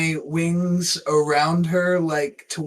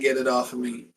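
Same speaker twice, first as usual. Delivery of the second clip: normal talking voice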